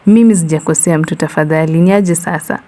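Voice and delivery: cracking scared voice. Acted. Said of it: "His voice cracked like a broken radio".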